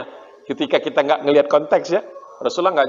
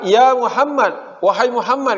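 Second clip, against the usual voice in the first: higher, slow called-out ya Muhammad; mock shout; 8 semitones higher, 4 dB louder, slower than usual. Jews shouting at Muhammad from the fort, mock yell. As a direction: call across to him from the fort walls, half-acted. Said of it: "Jadi teriak gitu".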